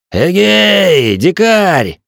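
high, loud call across the wind; shouting over wind. A narrator's reading. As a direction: yell it over a storm. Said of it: "прокричал я, перекрикивая ветер".

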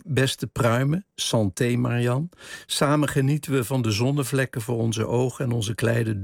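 measured, deliberate read-aloud of a novel; literary reading. A narrator's reading. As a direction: read the passage out with care, phrase by phrase. Reads a book passage. (rustig voorgelezen romanfragment)

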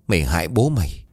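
a mother's furious tirade, fast at the end; angry mother scolding. Acted. Mother scolding her daughter Hiền after the fall, angry. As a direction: rip into the child with scorn.

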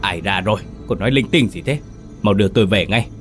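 irritated scolding. Acted. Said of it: "bực bội mắng".

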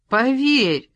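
high, bright plea to believe; cheerful insistence. A narrator's reading. (весело и настойчиво)

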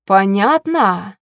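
slow, pointed demand; menacing, drawn-out question; quiet menace. A narrator's reading. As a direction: drag it out as a cold threat. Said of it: "а говорила тихим голосом".

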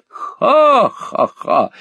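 high, drawn-out acted guffaw; high theatrical ha-ha-ha; mocking cackle. A narrator's reading. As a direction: laugh it out loud and slow, mockingly. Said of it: "захохотала миссис Сквирс".

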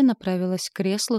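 ordinary delivery

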